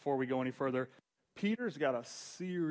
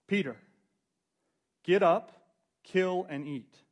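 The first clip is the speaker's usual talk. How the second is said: loud booming command, slow on kill and eat; commanding voice of God; 5 semitones higher, 8 dB louder, slower than usual. Acted. Preacher voicing God's command to Peter, loud and slow. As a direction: boom it out like God giving an order.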